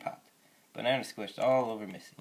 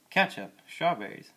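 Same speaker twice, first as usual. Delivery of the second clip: higher and louder, aghast at "Ketchup?"; shocked disbelief; 6 semitones higher, 7 dB louder, slower than usual. Acted. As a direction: echo the foods in horrified surprise. Miss Lane shocked at the food.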